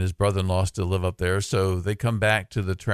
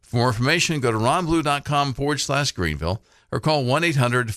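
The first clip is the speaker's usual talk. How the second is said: polished commercial voiceover; radio ad read. Acted. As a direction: sell it like a radio spot. Recorded radio ad.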